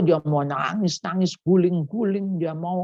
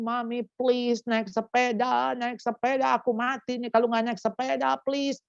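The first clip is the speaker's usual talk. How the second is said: put-on higher, whiny child pleading; begging child; 4 semitones higher than usual. Child begging mommy to ride the bike, higher and pleading. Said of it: "Dia mohon-mohon".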